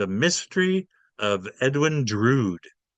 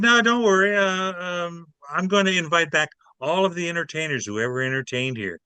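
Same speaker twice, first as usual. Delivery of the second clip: eager reassurance; 5 semitones higher than usual. Retold or imitated. Nightclub man pleading with boss.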